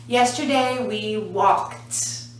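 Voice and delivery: slow, with "walked" as one syllable ending in "t"; final T sound. Shown as a demonstration. Teacher modelling past tense for learners, slow clear "t" on "walked". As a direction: draw it out and release the "t" of "walked". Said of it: "but the sound is walk".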